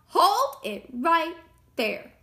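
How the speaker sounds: loud, slow command; firm interruption. A narrator's reading. Wolf stops the pig's threat, firm and loud. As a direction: cut in loudly and firmly.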